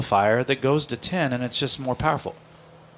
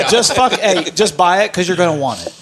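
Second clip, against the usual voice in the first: laughing; 3 semitones higher, 4 dB louder than usual. Real, not acted. Laughing insisting.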